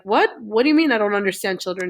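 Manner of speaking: mock-incredulous, rising 'What?' then a quick question; retold disbelief. Uncle answering the little girl's criticism, retold in mild disbelief. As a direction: lightly imitate a taken-aback adult, rushing the question.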